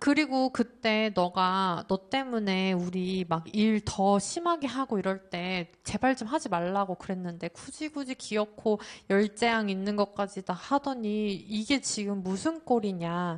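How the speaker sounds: ordinary talk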